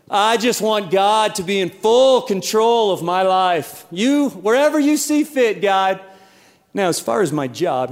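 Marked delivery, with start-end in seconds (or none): 0.1-6.0 church it up, all humble and holy; pious church talk. Retold or imitated. Preacher mocking believers praying sweetly. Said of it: "we say things like this".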